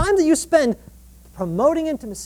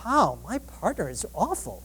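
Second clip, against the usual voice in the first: resentful; 4 semitones lower, 9 dB quieter than usual. Retold or imitated. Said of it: "interpret your partner's behavior two ways".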